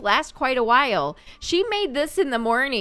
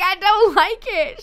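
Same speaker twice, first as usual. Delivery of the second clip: high, louder pouty voice, laughing through it; voicing a sim; 9 semitones higher, 5 dB louder than usual. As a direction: giggle the complaint in a squeaky sim voice. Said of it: "Oh, she's like".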